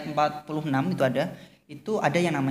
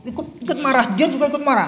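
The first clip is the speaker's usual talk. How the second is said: tertawa mengejek; 9 semitones higher, 5 dB louder, faster than usual. Real, not acted. Mocking drama viewers, laughing.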